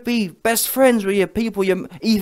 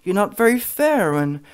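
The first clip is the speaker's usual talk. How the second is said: mock critics; 3 semitones higher than usual. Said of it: "that's what you man told me".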